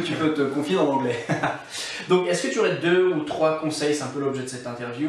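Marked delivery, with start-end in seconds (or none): 0.0-1.2 chuckling through the words; light real laugh in the voice. Real, not acted. Laughing at own joke. 1.2-2.0 soft airy chuckle; real, breathy laugh. Real, not acted. Laughter after joke.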